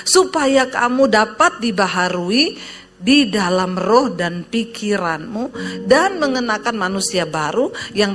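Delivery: emphatic, declaimed Bible verse with swooping phrase ends; solemn public scripture recitation; scripture reading. Acted. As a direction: read the verse out to a congregation, weighting each phrase. Reads the verse aloud to congregation.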